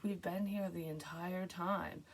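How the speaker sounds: soft, slow, calm reply; imitating the driver's calm flat insistence. Driver woman calmly telling the dreamer they never left, soft and slow. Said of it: "She's like".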